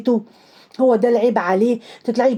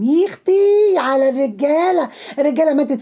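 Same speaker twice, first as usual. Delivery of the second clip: mock dismay; 4 semitones higher than usual. Mocking a man who shops.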